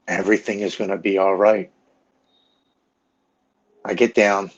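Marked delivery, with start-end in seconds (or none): 0.1-1.7 firm, insistent reassurance; earnest, emphatic promise that it will be fine; retold urgent reassurance. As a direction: reassure firmly, as if pleading. Wife pleads with him in basement.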